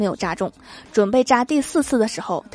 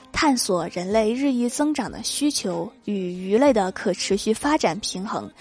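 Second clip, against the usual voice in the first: slow, self-important recital; smug; 3 dB quieter than usual. Retold or imitated. Brother grandly describing his research project, smugly. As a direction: imitate a brother showing off, drawn out. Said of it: "我哥得意地说".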